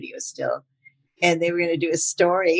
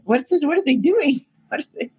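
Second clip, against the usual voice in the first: confused; 10 semitones higher, 3 dB louder than usual. Retold or imitated. Actor confused during fight scene.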